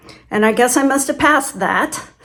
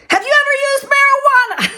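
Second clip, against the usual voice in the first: pitched way up, breaking into laughter; laughing mock question; faster than usual. Examiner's curveball question, laughing retelling.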